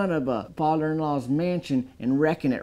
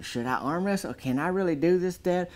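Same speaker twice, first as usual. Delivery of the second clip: put-on confused kid; 6 semitones higher than usual. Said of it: "there's confusion".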